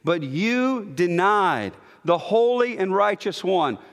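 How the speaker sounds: "you" leaned on in a preached verse; stress on you. Shown as a demonstration. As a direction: put clear weight on "you". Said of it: "you is emphatic every time".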